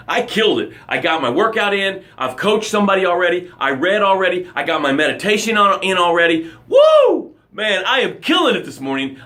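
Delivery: fast, hyped morning gratitude with a whoop; energetic gratitude shout-out; pumped-up gratitude. Shown as a demonstration. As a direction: sell it like you're on top of the world. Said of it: "this is how it sounds".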